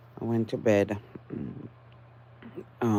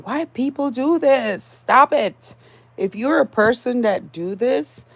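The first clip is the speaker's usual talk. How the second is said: angry; 4 semitones higher, 4 dB louder than usual. Real, not acted. Ranting against a common habit.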